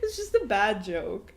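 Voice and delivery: loud, high, cracking up; helpless laughter at a bad joke; laughing. Real, not acted. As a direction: squeal it through real laughter.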